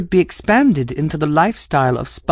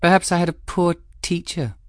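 calm. Acted. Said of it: "she replied calmly".

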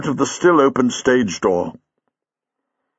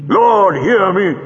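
pleading; 9 semitones higher, 4 dB louder, slower than usual. Acted. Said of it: "pleaded Chang".

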